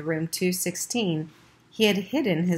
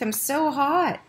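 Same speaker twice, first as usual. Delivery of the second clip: put-on much higher, whimpering sick boy; a hot, miserable child pleading; feverish whine; 10 semitones higher, slower than usual. A narrator's reading. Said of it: "mumbled Keith".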